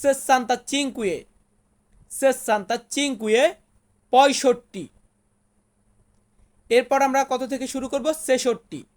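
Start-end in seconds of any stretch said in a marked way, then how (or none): 0.0-3.5 slow, syllable by syllable; slow demo. Shown as a demonstration. Teacher sounds out an Italian number for students, slowly. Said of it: "Italian ভাষাতে বলবো".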